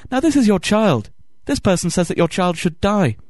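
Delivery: high-pitched mock interviewer pressing for a reaction; goading TV anchor. Anchor provoking the child's mother, mock-concerned goading.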